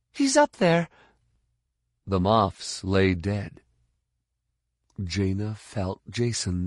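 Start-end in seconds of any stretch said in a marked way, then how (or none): 0.1-0.9 very high, louder urgent cry; gasped warning. Acted. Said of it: "she gasped".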